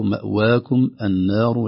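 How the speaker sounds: مأواكم النار slowly with thin vowels; light letters. Shown as a demonstration. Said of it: "ليست". (ترقيق مأواكم)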